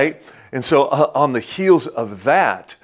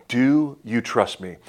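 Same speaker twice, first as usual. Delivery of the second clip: slow, earnest question; slower than usual. Retold or imitated. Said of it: "God's asking you".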